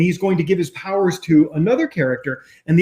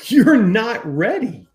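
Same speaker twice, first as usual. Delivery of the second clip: very slow, each word set apart; slow emphatic; 2 semitones higher, much slower than usual. Real, not acted. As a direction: drag it out to land the point. Emphatic repeated punchline.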